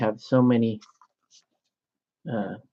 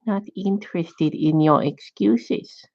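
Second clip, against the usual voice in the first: put-on judgmental Asian accent; 6 semitones higher than usual. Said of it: "very judgmental Asian".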